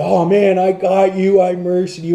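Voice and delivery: high, loud excited boast; proud gloating. Retold or imitated. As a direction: imitate someone crowing over a win. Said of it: "he was so proud of himself".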